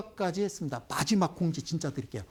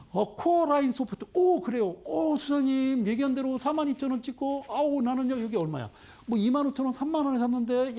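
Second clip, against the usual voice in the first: worried investor voice; 6 semitones higher than usual. Acted. Voicing anxious investor viewers.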